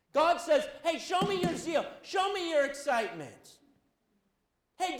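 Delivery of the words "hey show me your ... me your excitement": God's call. Acted. Preacher voicing God's call.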